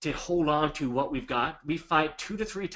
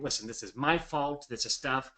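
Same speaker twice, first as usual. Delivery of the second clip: taking the blame. Shown as a demonstration. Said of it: "Take a hundred percent of the blame".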